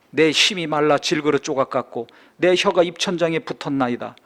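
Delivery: solemn scripture reading. Acted. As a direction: proclaim the psalm to the congregation. Reads psalm aloud.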